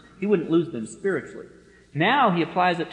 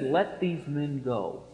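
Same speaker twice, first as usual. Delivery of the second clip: slow, softer calm authority; quiet authority; 2 semitones lower, 4 dB quieter, much slower than usual. Retold or imitated. Preacher voicing Jesus commanding soldiers, soft slow authority. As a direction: say it slowly with quiet total authority. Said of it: "with the same infinite authority in his voice".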